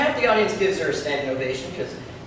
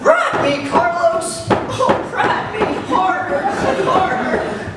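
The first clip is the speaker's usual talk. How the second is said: high, loud hammed-up moans of pleasure; mock moaning woman; 5 dB louder, much slower than usual. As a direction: squeal it like an over-the-top lover. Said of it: "getting banged in the supply closet".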